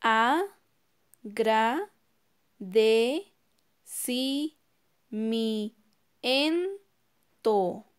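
"A, gra, de, si, mi, en, to." in seven spaced beats; teacher counting agradecimiento aloud; syllable by syllable. Shown as a demonstration. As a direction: count each one on a finger. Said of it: "Vamos a contar sus sílabas".

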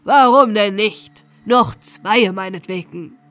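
loud, generous go-ahead; pleased calling out. A narrator's reading. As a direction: grant it loudly, slow on the question. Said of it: "rief der Hauptmann, den des Gastes Mut freute".

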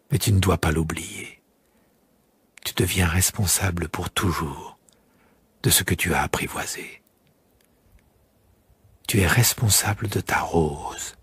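the fox urging the prince to remember; solemn fox. Acted. Fox character speaking.

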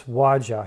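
Waja said with a j as in jar; Waja, the j fully sounded; guessed pronunciation. Shown as a demonstration. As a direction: say Waja with a hard English j. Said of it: "I don't know how her name is pronounced".

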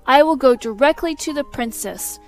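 loud, defiant declaration; defiant shout. Acted. Learned man vows to go to the princess, loud and defiant. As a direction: fling it back as a challenge.

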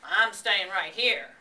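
loud, slow, grumpy rat voice; surly, emphatic refusal; grumbling rat. A narrator's reading. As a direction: dig in stubbornly, stressing each word. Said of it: "grumbled the rat".

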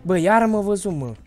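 high, loud cry of dismay; exasperated yell. Real, not acted. Player spotted by the monster, exasperated shout. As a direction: burst out loudly, falling off at the end.

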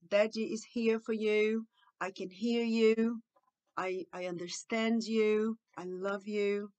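slow, calm comforting; tender reassurance. Shown as a demonstration. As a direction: reassure a child slowly and lovingly. Models empathetic phrases. (consolo lento e amoroso)

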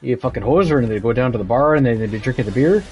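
put-on thick stereotypical Canadian accent; put-on Canadian hoser accent. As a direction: talk like a Canadian hoser at the bar. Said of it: "I know people that fucking talk like that".

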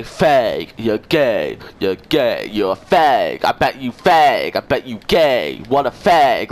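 loud, mocking chant of insults; hammed-up mockery of the other players; mocking imitation. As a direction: parrot the taunts back, dumb and loud. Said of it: "You say".

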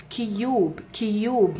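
كيوب said kyoob twice, careful; repeated model word. Shown as a demonstration. Teacher repeating كيوب for students. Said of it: "قلت عليها يو".

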